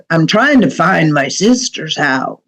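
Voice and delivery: low-key gruff mutter of a menacing stranger. Retold or imitated. Stranger at night asking for his sister's house, lightly gruff. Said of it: "in this gruff voice".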